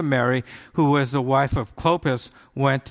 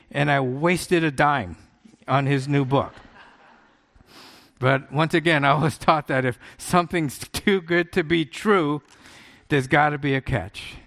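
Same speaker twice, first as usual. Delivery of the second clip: ordinary talk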